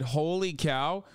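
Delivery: slow, lightly mocked holy cow; mock DeSantis. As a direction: echo him drily.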